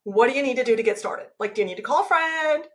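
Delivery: encouraging self-coaching, questions lifting; kind, lively inner pep talk; supportive inner voice. Acted. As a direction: offer yourself help eagerly. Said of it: "but different tone".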